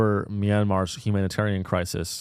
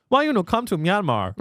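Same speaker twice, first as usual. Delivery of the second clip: high, hammed-up Southeast Asian accent; mock Asian accent; 8 semitones higher than usual. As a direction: plead in a put-on Asian accent. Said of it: "That was your best accent".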